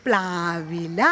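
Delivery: low, soft voiced reply of the class; children's chorus. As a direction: answer like a group of pupils. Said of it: "എല്ലാവരും ശബ്ദത്തിൽ പറഞ്ഞേ". (കുട്ടികളുടെ കൂട്ടമായ മറുപടി)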